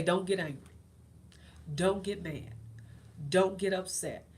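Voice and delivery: loud, firm commands to herself; firm self-warning. Retold or imitated. Talking herself out of anger, firm and loud.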